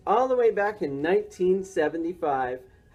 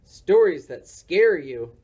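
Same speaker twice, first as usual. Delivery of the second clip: spooky voice; 5 dB louder, slower than usual. Acted. Boy makes it spooky.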